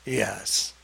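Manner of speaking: very low, soft, grim yes; a sinister, hushed admission; low entity yes. Retold or imitated. Alex answering, voiced as entity.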